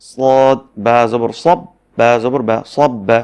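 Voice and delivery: loud, slow syllable-by-syllable drill; spelling drill. Shown as a demonstration. Teacher showing how to read a doubled letter, loud drill. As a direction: build up সব্বা with the ব said twice. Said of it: "এখানে বাটি দুইবার উচ্চারণ করা হচ্ছে".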